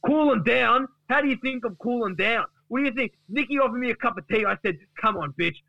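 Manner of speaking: high-pitched, worked-up mock rant; indignant Duck. Duck bursts through the door at Gary, indignant rant. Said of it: "Duck opens the door and says".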